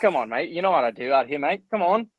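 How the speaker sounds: playful American take on an Aussie accent; Australian accent. Shown as a demonstration. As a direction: put on an Aussie accent, casual and clipped-in. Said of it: "if you have a good Australian accent".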